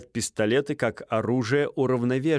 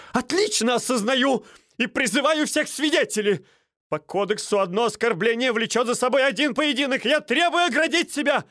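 shrill demand; 13 semitones higher than usual. Acted. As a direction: call on the witnesses, outraged. Стольский demanding.

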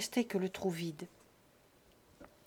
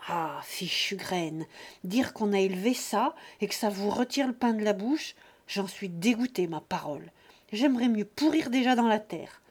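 put-on growling old father; 3 dB louder than usual. Old father cursing his greedy sons, growling. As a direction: mutter your disgust at your children. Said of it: "Il gronda".

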